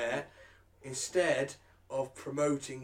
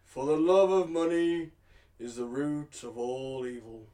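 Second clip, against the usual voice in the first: kindly vicar sermon; slower than usual. Acted. Reading Bible quote solemnly.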